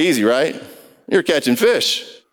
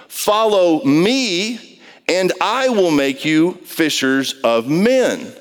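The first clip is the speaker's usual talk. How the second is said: Jesus inviting; 3 semitones higher, much slower than usual. Retold or imitated. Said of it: "Then he said to them".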